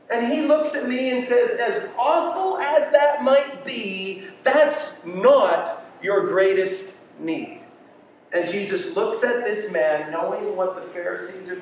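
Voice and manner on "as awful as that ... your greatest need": firm answer. Acted. Acted answer of Jesus to him.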